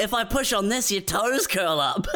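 hammed-up sadistic dentist laughing; gleeful dentist. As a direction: giggle while prodding.

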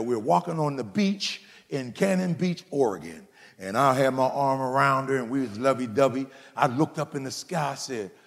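ordinary talk, nothing marked

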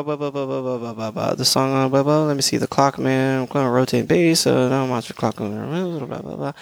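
rapid filler babble while searching notes; skimming aloud. Real, not acted. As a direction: mumble through the notes, hunting for the place.

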